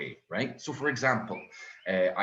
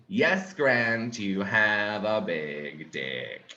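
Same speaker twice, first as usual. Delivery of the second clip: girlfriend impression; 2 semitones lower, much slower than usual. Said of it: "the worst one".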